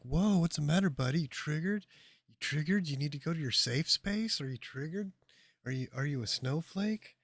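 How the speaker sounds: hammed-up sarcastic taunt to a heckler; mocking taunt. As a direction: needle him like a bully. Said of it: "I would have been like".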